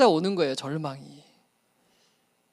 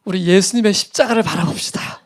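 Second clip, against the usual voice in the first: earnest altar-call appeal fading to a whisper; pleading sermon call. Retold or imitated. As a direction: preach the closing appeal with music. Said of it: "호소 음악을 딱 틀고".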